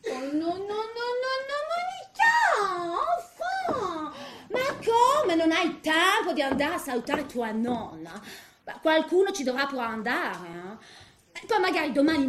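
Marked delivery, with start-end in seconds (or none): 0.1-8.2 high, whiny scolding of a daughter on the phone; mock scolding mother. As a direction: nag Monica shrilly to visit her grandmother. Daughter-in-law scolding Monica by phone.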